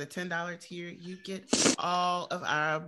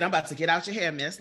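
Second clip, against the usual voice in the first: laughing quote; 7 dB louder, faster than usual. Retold or imitated. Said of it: "he said".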